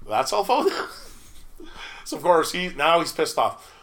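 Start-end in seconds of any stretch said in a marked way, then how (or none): 0.1-0.7 sarcastic. Retold or imitated. Confronting the patron.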